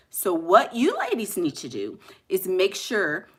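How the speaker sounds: measured, over-enunciated lecture to the ladies; mock-proper speaker. Shown as a demonstration. Showing followers how boring proper speech sounds, mock-formal lecture. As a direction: speak formally and carefully, every word complete. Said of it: "like, if I was to speak like".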